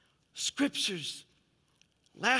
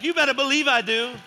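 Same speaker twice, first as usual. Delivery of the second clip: louder, emphatic preacher's outburst; wound up; 5 semitones higher, 7 dB louder than usual. Real, not acted. Preacher admitting to the congregation he gets excited, wound up. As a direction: own up to it with real excitement. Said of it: "I get pretty excited around here".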